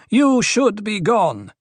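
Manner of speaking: high, slow, stern dismissal; growled. A narrator's reading. Duri wants the dwarf gone, growling. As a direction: send him away, drawing the words out high. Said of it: "Duri growled".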